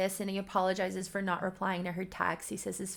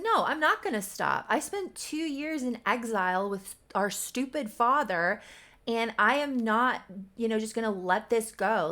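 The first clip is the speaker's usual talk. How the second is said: raised, higher retelling of an angry rant; mock screaming rant; 3 semitones higher, 4 dB louder than usual. Brother refusing to stop yelling at his sister, mock angry rant. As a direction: rant indignantly, imitating a screamer without really screaming. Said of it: "is screaming in her face".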